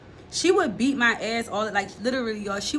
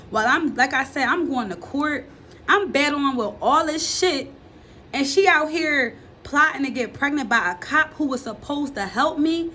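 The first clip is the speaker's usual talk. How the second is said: higher, louder indignant rant; angry; 4 semitones higher, 3 dB louder than usual. Real, not acted. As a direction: build the outrage as you go. Rising anger about mom.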